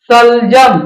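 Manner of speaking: सलजम opened with a palatal sh; tongue toward the palate on the first sound of सलजम, word set apart. Shown as a demonstration. Teacher reading an example for palatal sa, carefully enunciated sh in सलजम. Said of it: "तालु के संपर्क से बोला जाता है".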